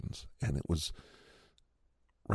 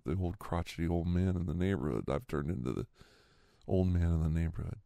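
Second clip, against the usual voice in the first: normal talking voice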